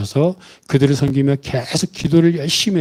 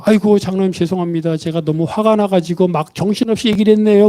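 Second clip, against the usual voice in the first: higher-pitched acted apology; apologetic; 5 semitones higher than usual. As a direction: apologise to an elder, voice lifted. Retold flustered apology to the elder. (높은 목소리로 죄송해하며 사과하듯)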